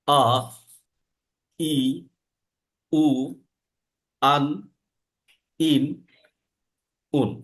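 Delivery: আ, ই, উ, আন, ইন, উন said one by one with pauses; six vowel forms. Shown as a demonstration. Teacher lists alif's six forms: measured, clear. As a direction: spell out the six sounds slowly and clearly. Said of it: "থেমে থেমে".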